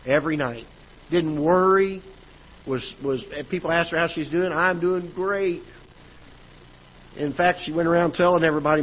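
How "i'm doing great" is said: raised, slow and beaming, imitating mom; lightly voiced cheerful mom; happy mom. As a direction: stretch it out like a proud, relieved mother. Mom happily telling people.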